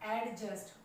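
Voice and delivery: "एडजस्ट" with an audible D before the J; D sounded. Shown as a demonstration. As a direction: say "एडजस्ट" as ad-just. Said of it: "ये एडजस्ट नहीं होता है". ("एडजस्ट" में डी बोलकर)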